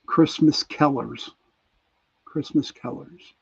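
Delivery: real Pittsburgh vowel in Kellers; Pittsburgh accent. Real, not acted. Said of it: "it's my Pittsburgh accent".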